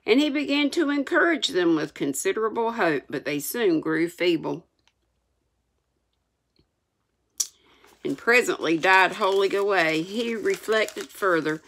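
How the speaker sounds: measured, expressive reading aloud; story narration. A narrator's reading. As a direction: read it like an audiobook storyteller.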